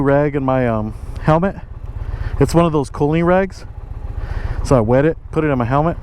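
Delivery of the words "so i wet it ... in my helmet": breathing hard while talking; panting a little between words. Real, not acted. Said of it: "Sorry if I'm breathing hard".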